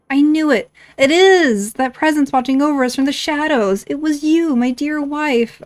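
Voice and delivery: high, exclaiming game-hero voice; theatrical husband. Acted. Husband hailing his wife from the shadows, theatrical. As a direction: declaim it grandly, drawing out the end.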